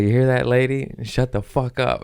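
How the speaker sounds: mocking stage yell at a drunk heckler. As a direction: shout her down from the stage.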